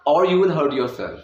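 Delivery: or you will run together as one word; linked or you will. Shown as a demonstration. Teacher showing or you will merged into one word. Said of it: "अर की आवाज़ है यू के साथ जुड़ गया".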